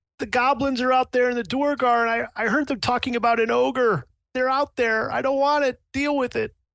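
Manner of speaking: high, frightened, pleading, blubbering voice. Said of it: "he's become a blubbering mess".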